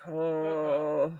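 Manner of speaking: soft, low, drawn-out "oh"; re-enacted groan with head down; low weary moan. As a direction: let out a quiet, sinking moan. Acts out head-down episode.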